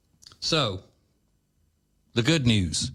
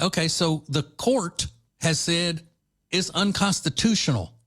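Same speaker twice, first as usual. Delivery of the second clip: higher-pitched mock governor scolding an interviewer; exasperated governor; 7 semitones higher than usual. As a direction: play an indignant governor, pitched up. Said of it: "is what he should have said".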